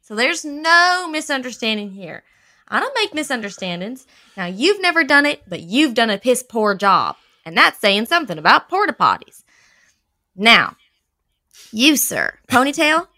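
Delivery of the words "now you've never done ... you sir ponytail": louder, barking boss. Acted. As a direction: scold the staff loudly. Boss scolds loudly.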